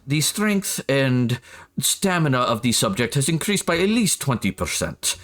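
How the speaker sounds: lightly put-on scientist dictating observations; measured, formal lab-report delivery; a hint of a research scientist logging results. Shown as a demonstration. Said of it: "pull up my scientist voice".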